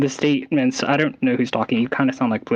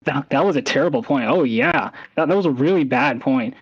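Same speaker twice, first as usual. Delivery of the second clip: sarcastic tone. Shown as a demonstration. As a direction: fake compliment dripping with sarcasm. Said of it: "when I use a sarcastic tone when I say".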